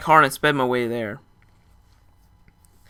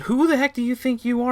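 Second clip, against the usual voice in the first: offended barfly; 12 semitones higher than usual. Retold or imitated. Offended friends retort.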